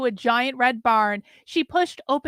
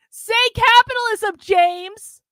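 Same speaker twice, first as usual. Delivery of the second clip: higher, louder command; demanding shout; 9 semitones higher, 6 dB louder than usual. Acted. Carlin shouts her demand at James while whipping. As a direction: yell the order at him.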